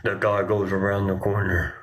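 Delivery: narrator voice. Shown as a demonstration. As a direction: narrate it like a nature documentary. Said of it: "narrator voice".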